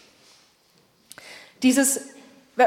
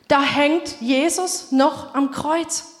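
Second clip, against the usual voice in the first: slow emphatic repeat; slower than usual. Shown as a demonstration. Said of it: "Schaut euch die ganzen Kruzifixe an".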